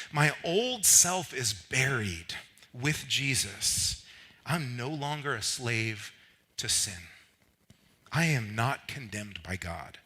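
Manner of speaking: emphatic, spaced-out declarations; declaration reading. Real, not acted. Preacher reads the list in first person, deliberate declaration. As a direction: read it slowly as a personal creed.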